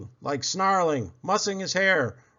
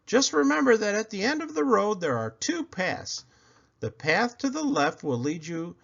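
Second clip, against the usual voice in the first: a touch higher, careful instructions; parents warning; 3 semitones higher than usual. Acted. Parents explaining the two paths to Buddy, careful. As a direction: lay out the rules carefully. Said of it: "his parents warned him".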